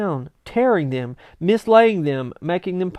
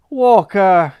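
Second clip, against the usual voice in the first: incredulous exclaim; 3 semitones higher, 8 dB louder than usual. Acted. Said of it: "exclaimed the boy".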